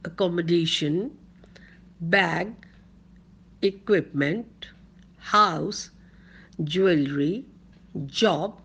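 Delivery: word by word, pausing after each; slow dictation. Shown as a demonstration. Teacher repeats the word list for students' notebooks, slow dictation. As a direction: repeat the list slowly, item by item. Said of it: "I'll read it very slowly".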